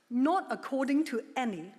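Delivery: "any" set apart with deliberate emphasis; stress on "any". Real, not acted. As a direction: lean on the word "any", then pause. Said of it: "I emphasize the word any".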